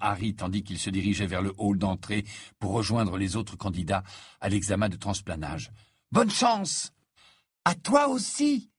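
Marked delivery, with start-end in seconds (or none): 6.1-8.7 high, louder good-luck wish; Hermione calling out. Acted. Hermione wishes Harry luck before the exam, high call. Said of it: "lança Hermione".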